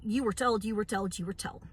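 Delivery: a scolding chant that fades away; fading scolding repeat. Retold or imitated. To people in a dinghy begging onto the ark, fading scold. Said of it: "And I'm sitting here going".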